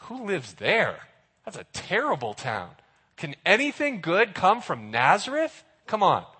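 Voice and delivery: scoffing, unconvinced doubt; sceptical Nathanael. Retold or imitated. Nathanael mocks Philip's news about Nazareth, sceptical. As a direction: scoff at the hometown. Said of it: "And Nathanael's like".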